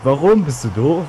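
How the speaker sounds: loud annoyed outburst. Real, not acted. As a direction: snap at him, high. Scolding a teammate.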